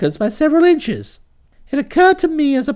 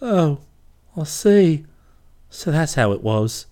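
much lower and softer, lamb-like mildness; mild; 10 semitones lower, 4 dB quieter than usual. A narrator's reading. Kipper forgives Bobby, mild as a lamb. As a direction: forgive her gently and quietly. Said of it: "with all the mildness for which lambs are noted".

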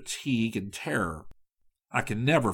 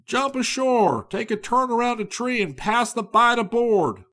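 higher, urgent commands; captain's eager orders; 11 semitones higher, 4 dB louder than usual. Acted. Captain orders the crew to tie up, higher and eager. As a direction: hurry the crew ashore.

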